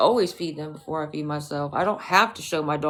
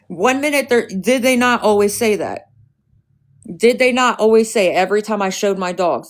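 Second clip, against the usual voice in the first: rising anger; 3 semitones higher, 6 dB louder than usual. Real, not acted. Rant about the haters.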